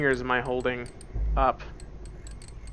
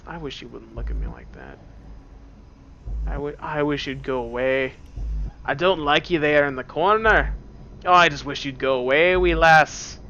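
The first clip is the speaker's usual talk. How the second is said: put-on light Scottish accent, pleading; a hint of Scottish brogue. Player talks to something in the corner, lightly Scottish. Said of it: "becoming Scottish".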